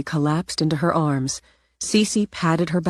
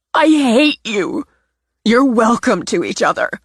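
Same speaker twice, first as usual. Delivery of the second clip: hateful parting shot; 7 semitones higher, 6 dB louder than usual. Acted. Natalie telling her sister she hates her, high and venomous. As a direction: drag out the hate, then spit the rest.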